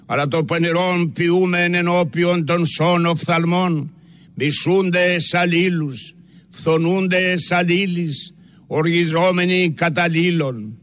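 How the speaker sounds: evenly pitched, reverent supplication, phrase by phrase; solemn prayer recitation. Real, not acted. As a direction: intone it as a solemn penitential prayer in church. Reads a penitential church prayer aloud.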